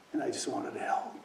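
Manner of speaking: soft, moved whisper. Real, not acted. Father recalling his crying son, softly whispered. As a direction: breathe it out, close to tears.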